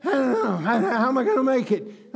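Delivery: mock a fretting believer; mock fretful worrier. Preacher mocking a worried believer's panic. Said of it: "I'm not making fun of anybody".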